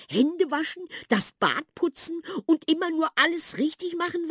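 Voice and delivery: high, loud mouse voice full of dismay; a mouse pleading about sad, tidy children; high mouse voice, heartbroken and indignant; lamenting mouse. A narrator's reading.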